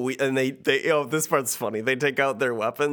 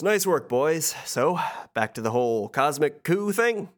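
Hades voice; 5 semitones higher than usual. Acted. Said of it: "turns to the Titans and says".

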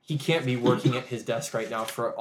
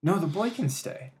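breathy Eladin voice; 7 semitones higher, 5 dB louder than usual. Acted. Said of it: "the breathy Eladin voice".

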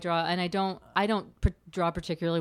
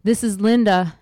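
spaced-out stoner voice; goofy, high, louder stoner message; 4 semitones higher, 7 dB louder than usual. Pretend. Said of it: "Say one of them right now".

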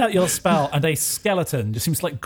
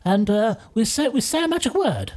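lightly voiced, halting teacher; encouraging professor; 5 semitones higher than usual. Professor explaining magic words to a new pupil, mildly encouraging. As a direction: coax a new pupil along.

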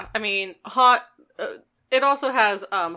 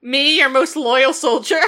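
raised, loud, affronted plea; hammed-up protest; 4 semitones higher, 6 dB louder than usual. Loyal soldier protests to Megatron, hammed-up indignation. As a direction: protest your loyalty theatrically.

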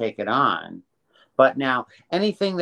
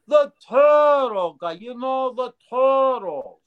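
put-on New Jersey accent; 4 dB louder, slower than usual. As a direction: do a New Jersey mob guy on the phone. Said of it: "And he talked like this".

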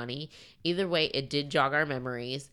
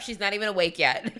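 laughing retort; 4 semitones higher, 3 dB louder than usual. Retold or imitated.

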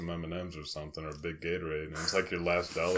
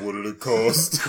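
put-on slow girl voice; 7 dB louder, slower than usual. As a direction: draw it out like a child. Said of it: "His, his daughter is like".

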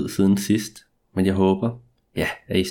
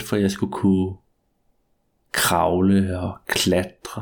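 story narration. A narrator's reading. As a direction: draw out each line like a ghost story. Spooky first-person tale after intro.

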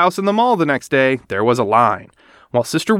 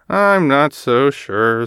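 sighed; much slower than usual. Acted. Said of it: "sighed Mama".

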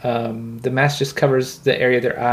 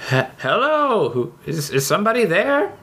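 muffled voice; 7 semitones higher than usual. Acted. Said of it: "a muffled voice coming from the other side".

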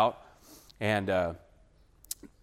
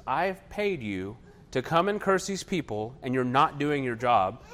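slow, higher mock scolding; angry king; 3 semitones higher than usual. Balak scolds Balaam for not cursing, mildly angry and slow. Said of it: "Balak gets angry with him".

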